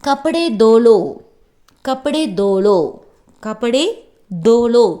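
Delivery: teacher drilling "கப்படே தோலோ" piece by piece, punching "தோலோ"; pronunciation demo. Shown as a demonstration. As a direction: model "கப்படே தோலோ" clearly, splitting it on the last take. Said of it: "எப்படி ஹிந்தியில் pronounce பண்ணணும்".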